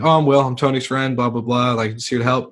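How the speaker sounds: put-on startled young guy explaining himself; caught off guard. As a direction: answer quickly, caught out. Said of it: "And I was like".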